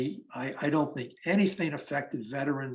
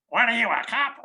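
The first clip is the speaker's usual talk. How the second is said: put-on suspicious old lady; 8 semitones higher, 5 dB louder than usual.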